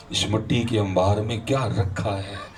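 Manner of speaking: slow, measured poetic delivery; devotional verse recitation. Real, not acted. Preacher quoting verse in praise of the Prophet, slow recitation. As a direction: draw out the couplet for the audience.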